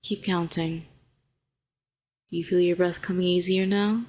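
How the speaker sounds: calm, even, unhurried coaxing; soothing guidance. Acted. Helping a shaken hero find their pulse, soothing. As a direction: guide them gently back to steady breathing.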